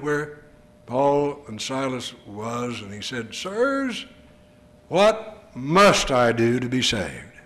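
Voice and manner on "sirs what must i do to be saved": pleading jailer. Acted. Jailer pleads with Paul, Silas.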